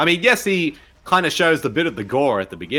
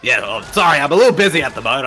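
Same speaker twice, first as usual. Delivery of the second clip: mock killer voice; 4 dB louder, much faster than usual. Playing Victor Crowley.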